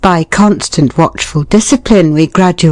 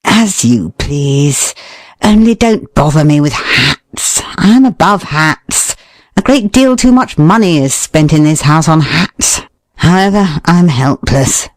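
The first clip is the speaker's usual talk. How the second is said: weary disdain. Shown as a demonstration. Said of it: "Or whether you convey".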